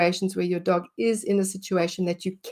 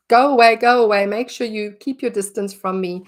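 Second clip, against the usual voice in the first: louder, pushy go-away voice; mock dog warning; 2 semitones higher, 7 dB louder than usual. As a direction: speak as the dog shooing another off. Dog voiced telling others off.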